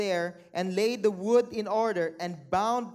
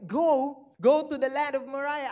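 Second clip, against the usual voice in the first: God's call, louder and raised; booming command; 2 semitones higher, 5 dB louder than usual. Acted. Preacher voicing God's call.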